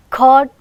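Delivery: "Cord" with a puff of air after the c; aspirated k. Shown as a demonstration. Teacher letting students hear cord, k aspirated. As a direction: release the c of "Cord" with breath. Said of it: "we can hear the aspiration".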